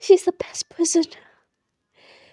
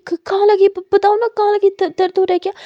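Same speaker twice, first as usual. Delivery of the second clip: anxious concern; 4 semitones higher, 4 dB louder, faster than usual. Acted. Character worried about hurt hand.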